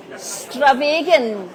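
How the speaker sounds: slow, stretched presentation; drawn-out word. Shown as a demonstration. Host presenting a Scots word, drawn out slowly.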